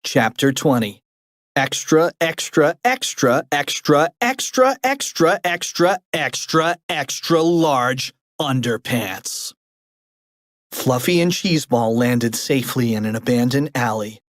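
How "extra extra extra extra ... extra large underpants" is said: newsboy call. Acted. Newsboy calling headline.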